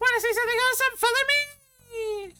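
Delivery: very high, swooping falsetto, drawn-out "me". Retelling a scene where someone answers Cloud: high falsetto. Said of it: "you could go into a falsetto so high".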